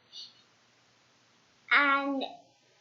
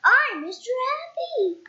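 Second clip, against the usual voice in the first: high, louder jolly self-introduction; cheerful Mister Happy; 10 semitones higher, 5 dB louder than usual. Acted. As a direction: announce yourself happily.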